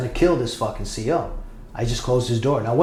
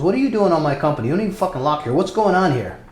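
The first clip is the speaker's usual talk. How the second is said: mildly indignant guard, pitched up; retold challenge; 6 semitones higher, faster than usual. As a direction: fire questions at an intruder, higher and quick. Guard challenges him on his rounds.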